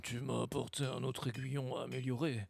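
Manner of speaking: voix de vieux forgeron légèrement grave. Acted. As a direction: joue un vieux scarabée bourru. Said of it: "Je vais pouvoir faire ma voix de vieux". (voix de très vieil homme)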